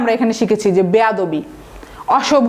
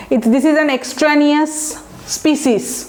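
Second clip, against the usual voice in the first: spoken slowly, word by word, as a model; slow example sentence; 3 semitones higher, much slower than usual. Shown as a demonstration. Teacher reading an example sentence slowly to students. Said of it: "বুঝতে হবে বাইরের".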